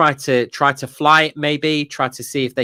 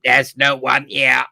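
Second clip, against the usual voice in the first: robot voice impression. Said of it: "he speaks like, uh, the old Smash T V advert".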